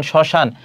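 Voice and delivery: শ্মশান said "shoshan", no m sound; silent ম. Shown as a demonstration. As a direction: drop the ম in শ্মশান. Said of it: "কোনো উচ্চারণ হয় না".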